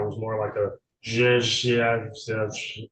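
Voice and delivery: imitating slurred drunk speech, buzzing zh; drunken slurring. Shown as a demonstration. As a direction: mimic a drunk slurring his words. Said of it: "you're imitating the slurring of words".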